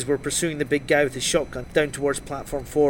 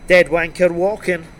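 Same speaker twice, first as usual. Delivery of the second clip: chuckling; 3 semitones higher, 7 dB louder than usual. Acted. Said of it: "he chuckled and said".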